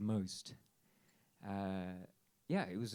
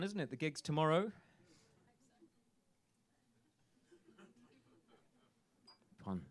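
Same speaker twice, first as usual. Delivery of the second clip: gravelly voice; 3 dB louder, faster than usual. Real, not acted. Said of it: "a bit gravelly in the throat".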